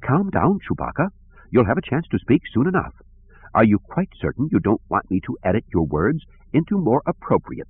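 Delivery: high, soft and fussy droid voice; soft, prim robot butler; prissy protocol droid. Acted. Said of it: "spoke in a soft voice".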